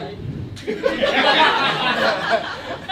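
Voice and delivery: mimicked laughing fit; imitated friend's laugh. Friend laughing at him outside the bank, imitated laugh. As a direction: act out a friend cracking up. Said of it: "my friend was like".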